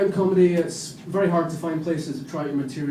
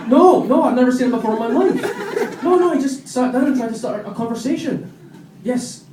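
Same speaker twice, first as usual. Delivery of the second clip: high, loud, frantic woman on the phone; panicked woman caller; 7 semitones higher, 4 dB louder than usual. Acted. Woman on the phone begging police for help, high and frantic. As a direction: shriek it to the police operator.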